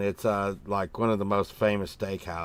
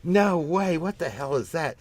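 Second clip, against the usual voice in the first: high, loud mock outrage at the idea of bread pudding; disgusted disbelief; 7 semitones higher, 7 dB louder, slower than usual. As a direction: react like it's the grossest thing you've heard. Retold reaction to bread pudding.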